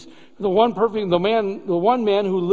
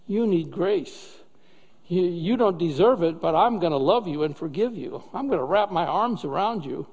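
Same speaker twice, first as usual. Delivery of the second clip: tender mercy; 3 semitones lower, 3 dB quieter than usual. Acted. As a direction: speak like a father holding his child close. God voiced tenderly forgiving.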